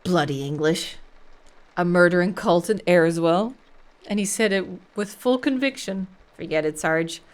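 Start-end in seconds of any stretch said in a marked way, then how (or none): 0.0-6.1 scoffing. Acted. Officer scoffs after Moore leaves.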